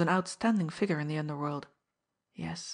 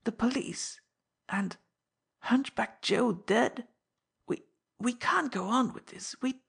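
panicky; 5 semitones higher than usual. Acted. Old man panicking.

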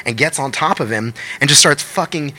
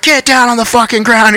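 high shouted cop command; mock police shout, loud and high; cops yelling; 10 semitones higher, 5 dB louder than usual. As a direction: bark it like a cop making an arrest.

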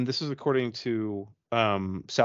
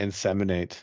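over enunciating; 3 semitones lower than usual. Shown as a demonstration. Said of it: "I'll say it slower for the".

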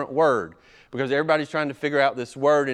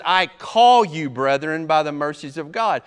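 ringing summons; 5 dB louder than usual. Retold or imitated. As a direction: summon them with authority. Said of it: "Paul says".

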